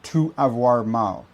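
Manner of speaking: slow To avoir mal with an American tu; teacher imitates the American To avoir mal slowly; American accent in French. Shown as a demonstration. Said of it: "rappelle-toi que le to".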